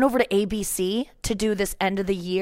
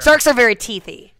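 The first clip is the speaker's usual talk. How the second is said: laughing; 4 semitones higher, 7 dB louder than usual. Real, not acted. Playing shark voices.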